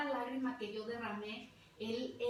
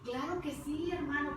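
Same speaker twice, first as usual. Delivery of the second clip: higher, eager yes on the phone; delighted, higher-pitched reply; glad acceptance; 4 semitones higher, 4 dB louder than usual. Retold or imitated. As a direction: accept happily, pitch lifted. Acts out her glad phone acceptance.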